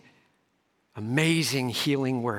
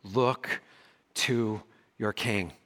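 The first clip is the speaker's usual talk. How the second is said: excited Paul; 3 semitones higher than usual. Retold or imitated. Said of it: "Paul's like".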